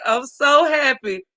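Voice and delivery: choking up while saying it; joy pushing through tears; tearful, emotional gladness; happy tears. Real, not acted. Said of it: "start tearing up over here".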